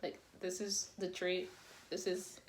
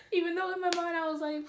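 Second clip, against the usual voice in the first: talking through real laughter, high and loose; laughing; 8 semitones higher, 4 dB louder, faster than usual. Real, not acted. Storyteller cracking up at her own first kiss story, laughing. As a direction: laugh your way into the line.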